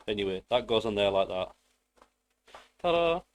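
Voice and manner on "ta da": loud high ta-da; triumphant ta-da. Pretend. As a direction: announce it like a reveal. Shows off finished part.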